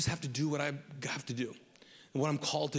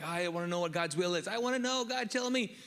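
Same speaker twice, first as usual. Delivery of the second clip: whiny seeker; 5 semitones higher than usual. Retold or imitated. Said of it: "Some of you guys are like".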